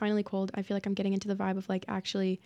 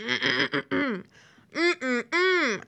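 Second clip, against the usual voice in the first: hummed approval; 4 semitones higher, 4 dB louder than usual. Retold or imitated. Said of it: "I was like".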